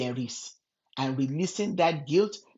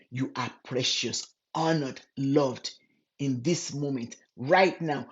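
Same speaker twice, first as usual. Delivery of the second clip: precious, honored, loved, spaced and slowed; said slowly. Shown as a demonstration. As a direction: linger on each word. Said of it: "let me say this slowly".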